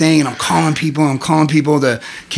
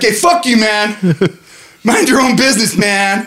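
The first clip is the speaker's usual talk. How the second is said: mock snap; 5 semitones higher than usual. Snapping back at cellmate.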